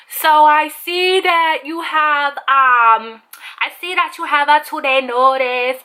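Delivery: drawn-out imitation Hispanic accent. The speaker addresses the departing employee, mock Hispanic accent. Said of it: "I'm doing a Hispanic accent right now".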